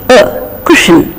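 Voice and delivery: "cushion" ending in a weak uh; schwa in cushion. Shown as a demonstration. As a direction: soften the last syllable of "cushion" to uh-n. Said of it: "we get this sound, the inverted E".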